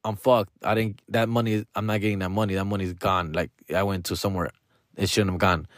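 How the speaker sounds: hushed, low, hopeless mock despair; desperate friend. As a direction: fade into the friend's quiet, sinking panic. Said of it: "he seemed very desesperado".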